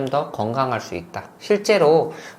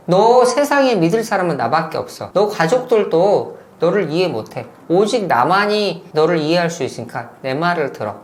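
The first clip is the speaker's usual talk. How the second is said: mock isolating manipulator; 2 semitones higher, 4 dB louder than usual. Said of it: "마지막으로".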